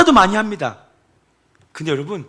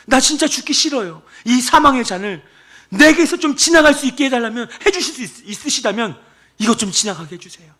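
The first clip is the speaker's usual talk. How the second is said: pleading prayer; 2 semitones higher than usual. Retold or imitated. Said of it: "본인의 마음을 먼저 막 쏟아내십니다".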